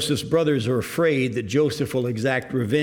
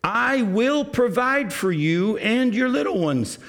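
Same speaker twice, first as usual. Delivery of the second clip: kindly; 5 semitones higher than usual. Acted. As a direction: comfort frightened brothers gently. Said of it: "spoke kindly to them".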